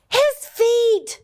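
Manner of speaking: yelling. Acted. Dakota yelling at feet in the soup, alarmed. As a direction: cry out in alarm at the pot. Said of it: "yelled Dakota".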